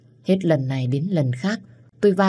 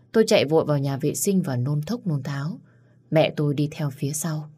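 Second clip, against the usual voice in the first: plain reading voice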